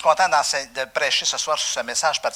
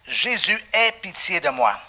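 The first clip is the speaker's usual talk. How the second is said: higher, loud plea to Jesus; crying out; 4 semitones higher, 6 dB louder than usual. Acted. Blind beggar calling out to Jesus, a loud high plea. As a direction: call out desperately, loud and high. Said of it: "Il se mit à crier".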